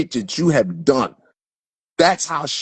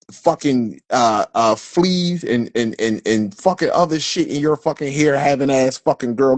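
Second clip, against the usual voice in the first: acted insult tirade. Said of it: "run across a real S U N and say".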